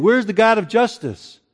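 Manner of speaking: an indignant rhetorical cry; mock exasperated complaint. Doubters questioning God amid injustice, mock exasperated. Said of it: "or by asking".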